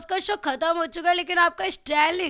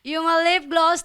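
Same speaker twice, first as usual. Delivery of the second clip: louder, drawn-out catchphrase delivery; her signature catchphrase; 4 dB louder, much slower than usual. Retold or imitated. Guest shows fans her Bigg Boss catchphrase, louder and drawn out. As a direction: belt out the trademark line like on the show. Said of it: "और मेरा style".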